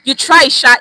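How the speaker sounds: teacher stressing the phrase "you try, sha"; emphatic demo. Shown as a demonstration. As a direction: hit "you try, sha" hard like a warning. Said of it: "let me tell you".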